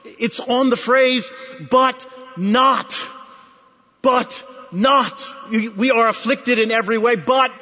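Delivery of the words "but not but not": but not, stressed; but not, weighted and slow. Shown as a demonstration. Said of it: "the accent in these verses is on".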